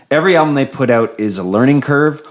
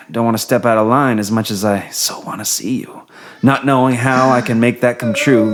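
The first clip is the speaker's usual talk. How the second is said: Pillow Talk voice. Acted. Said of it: "the Pillow Talk voice".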